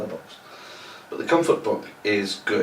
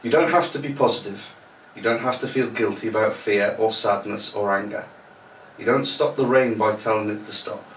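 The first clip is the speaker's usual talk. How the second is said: posh reading voice. Shown as a demonstration. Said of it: "my posh reading voice on".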